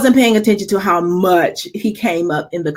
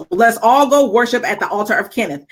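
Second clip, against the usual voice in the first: sarcastic smile. Retold or imitated. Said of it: "She said it with a smile, a little sarcastic smile".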